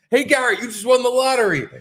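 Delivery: high, bright scam caller pitch; mock prize announcer. Friend mocking a scam call, cheesy high announcer voice.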